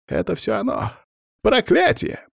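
very high, frightened wail; panicked lament. A narrator's reading. Cursed man blaming the curse, panicked lament.

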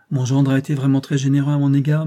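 1 lamenting whine. Acted. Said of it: "d'une voix lamentable et criarde".

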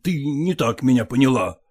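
ordinary delivery

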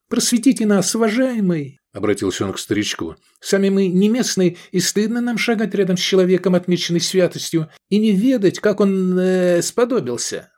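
scheinheilig unterwürfig. Acted. Edik verspottet fromm den Alten.

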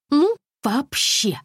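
high, slow offended exhale; huffy disbelief. A narrator's reading. Alisa reacts after the manager hangs up, offended. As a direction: sound outraged at being hung up on. Hung up on her.

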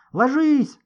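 sharp high loud shout; yelling. Acted. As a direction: scream the warning at everyone. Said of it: "заорал Гошка".

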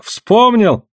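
high, excited cry of remembering; eager outburst, high all the way through; excited exclamation. A narrator's reading. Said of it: "вдруг воскликнул Чумбока".

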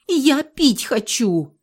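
high, loud, slow plea through a door; a captive girl wailing for a drink; desperate cry. A narrator's reading. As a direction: beg for water like you're parched. Thirsty captive begging through door.

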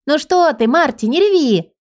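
put-on cheerful teasing girl. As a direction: cheer her up with a playful scolding. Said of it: "весело бросила".

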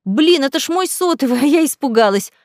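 on the edge of giggling; amused relief. A narrator's reading. Ника realises it was her phone, amused and relieved. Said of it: "прыснула Ника".

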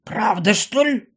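mildly sceptical question; doubtful. A narrator's reading. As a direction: ask with suspicion. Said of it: "недоверчиво вопросила она".

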